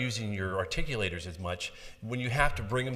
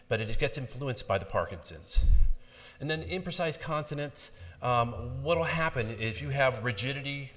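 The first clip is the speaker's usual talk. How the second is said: ordinary talk, nothing marked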